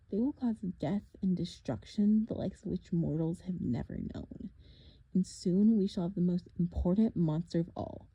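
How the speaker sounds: a lightly voiced, taunting monster; mock them, a touch sinister; menacing villain. Villain taunting the half-blood at the cliff edge, lightly menacing. Thorne's voice.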